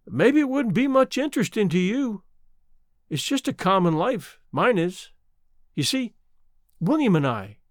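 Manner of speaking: put-on gently explain, old woman's voice; lightly voiced old mountain woman. Old woman tells her life.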